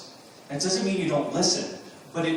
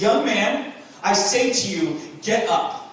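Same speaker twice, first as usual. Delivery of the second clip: loud, high command; 4 semitones higher, 5 dB louder than usual. Acted. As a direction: order him up with full authority. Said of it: "He says it with authority".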